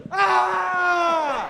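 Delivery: high mock yelp of horror; startled high squeal; imitated shocked cry. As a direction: yelp like someone who just saw a crooked thing. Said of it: "He's like".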